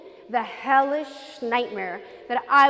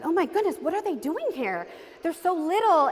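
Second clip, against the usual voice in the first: higher, mildly shocked recollection; retold dismay; 5 semitones higher than usual. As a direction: relive seeing them with a touch of disbelief. Recalls shock at seeing the children.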